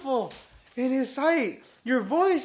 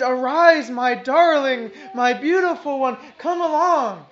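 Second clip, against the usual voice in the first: fervent loud call; 2 semitones higher, 8 dB louder than usual. Shown as a demonstration. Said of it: "He says".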